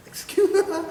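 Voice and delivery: bursting into a high laugh mid-word; giggling apology, pitch jumping up. Real, not acted. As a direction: laugh your way through the excuse. Laughing mid-phrase at own story.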